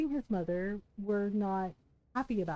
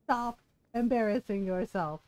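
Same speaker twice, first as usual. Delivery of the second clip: measured imitation with deliberate pauses; calm rebuke. Father-in-law telling her to stop embarrassing herself, calmly. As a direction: space it out evenly, imitating a composed dad. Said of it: "said it so calmly".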